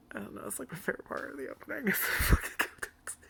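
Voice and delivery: whispered, wheezing through giggles; breathless laughter. Real, not acted. Reviewer cracking up at the go-kart opening, whispered laughter. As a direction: barely get the words out for laughing.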